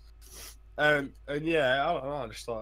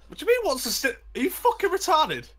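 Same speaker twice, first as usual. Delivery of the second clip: outraged yell; 13 semitones higher, 4 dB louder, faster than usual. Real, not acted. Mock outrage at being questioned.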